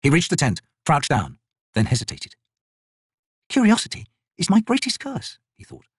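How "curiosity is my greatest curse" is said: a lightly higher wary wizard. Acted.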